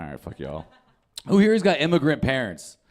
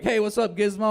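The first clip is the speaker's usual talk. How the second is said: greeting a pet; 8 semitones higher than usual. Retold or imitated.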